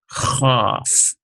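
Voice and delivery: "chaf" with a rasping throat kh; hoarse chaf. Shown as a demonstration. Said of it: "It's a hoarse H sound".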